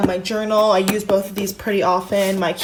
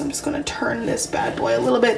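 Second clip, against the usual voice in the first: whispering; 3 semitones higher than usual. Real, not acted. Quiet aside while turning plant.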